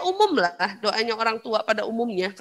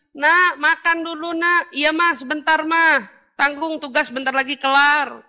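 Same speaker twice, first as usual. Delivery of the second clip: raised voice across the house; calling out; 3 semitones higher, 4 dB louder than usual. Acted. Mother calling child to eat and child putting her off, calling out.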